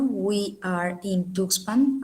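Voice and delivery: said slowly, word by word: "We are in Tuxpan"; slow repeat. Shown as a demonstration.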